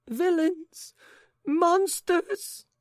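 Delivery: very high, loud outraged cry; shrieking. Acted. Lady shrieking at the intruders, very high. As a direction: scream it in outrage. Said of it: "cried the lady".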